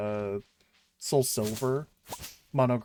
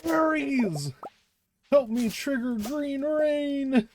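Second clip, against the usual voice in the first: calling out; 13 semitones higher, 3 dB louder, much slower than usual. Acted. Calling out to game character.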